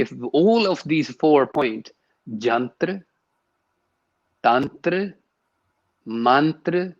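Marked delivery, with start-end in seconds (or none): 2.4-6.9 jantra, tantra, mantra, Indian-style, one by one; proper pronunciation. Shown as a demonstration. Interviewee listing the key words, each pronounced carefully. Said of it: "these four words can't be pronounced properly".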